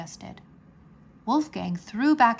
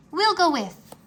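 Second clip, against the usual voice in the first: quick, keen and higher; eager offer; 8 semitones higher, 8 dB louder than usual. A narrator's reading. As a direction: jump in eagerly. Rory offers to join.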